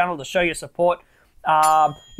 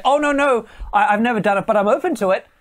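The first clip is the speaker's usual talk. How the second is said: higher, louder hurried reassurance; pitched-up mock girlish protest; eager backpedal; 4 semitones higher, 4 dB louder than usual. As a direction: rush to prove she's open. Woman hurrying to reassure him.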